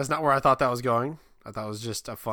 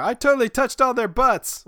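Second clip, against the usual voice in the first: put-on excited kid; 12 semitones higher, 8 dB louder than usual.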